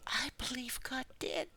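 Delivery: breathy, almost whispered; hushed confession. Real, not acted. Preacher humbly admitting God uses him. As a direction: whisper it like a secret.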